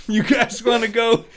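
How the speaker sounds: high, hammed-up bully voice; overacted anime dub. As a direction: ham up a dopey goon, high and loud. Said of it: "the dub voice of".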